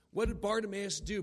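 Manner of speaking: normal talking voice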